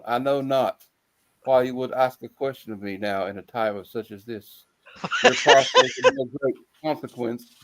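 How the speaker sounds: a hint of a grave German filmmaker; Werner Herzog impression. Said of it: "I'll try to do it in one".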